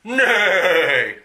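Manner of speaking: loud, high whinnying "Nay!"; the horse Dodger whinnies in protest; horse neigh. Acted.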